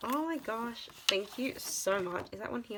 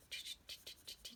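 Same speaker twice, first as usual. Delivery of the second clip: whispered excited gasp; 19 dB quieter than usual. Real, not acted. Gasp at coloring more hours.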